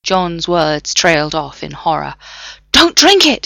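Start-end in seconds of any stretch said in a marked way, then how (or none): 2.7-3.5 higher, louder, pressing warning; urgent plea. A narrator's reading. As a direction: urge him hard to stop. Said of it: "he urged".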